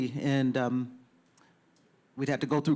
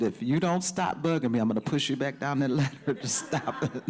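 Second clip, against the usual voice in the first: lively mock warning breaking into a laugh; animated, half-laughing telling-off; animated retold threat. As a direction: playfully threaten a pest. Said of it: "I said it very animated".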